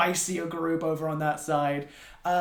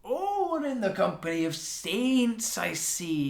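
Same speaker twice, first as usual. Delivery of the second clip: sarcastic; 6 semitones higher, slower than usual. Acted. GM voices sarcastic mage.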